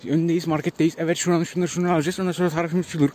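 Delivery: lightly voiced vlogger intro; a hint of a chirpy street vlogger; YouTuber voice. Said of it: "kendimi şu anda YouTuber'lar gibi hissediyorum".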